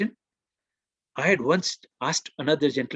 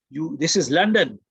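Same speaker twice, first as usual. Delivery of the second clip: loud retold rebuke; worked up; 5 dB louder than usual. Worked-up passenger reminding the father where he is, angry rebuke. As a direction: hammer it home loudly. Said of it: "he was very worked up".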